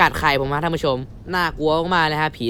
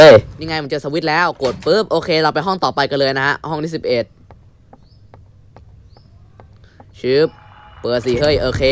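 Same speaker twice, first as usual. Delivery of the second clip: polite show host voice. Acted. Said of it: "พวกกูเลิกพูดเสียงแบบนี้ดีกว่า".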